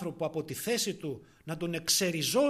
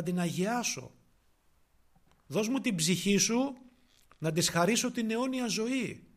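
pleading preacher; 3 semitones higher, 5 dB louder than usual. Acted. Christ's plea voiced in sermon.

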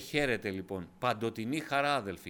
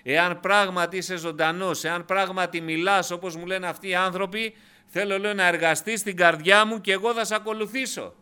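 higher-pitched retelling of an earnest prayer; raised preacher's voice, addressing God; retold plea to God; 5 semitones higher, 6 dB louder than usual. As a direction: re-enact your own bargaining prayer. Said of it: "μπαίνω μέσα και λέω".

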